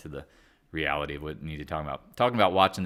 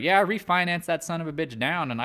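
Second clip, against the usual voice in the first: hillbilly; 5 semitones higher than usual. Retold or imitated. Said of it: "me talking like a hillbilly".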